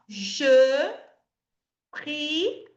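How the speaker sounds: prie with pursed, rounded lips. Shown as a demonstration. Teacher telling students to pout on prie. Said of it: "Biquinho, ó".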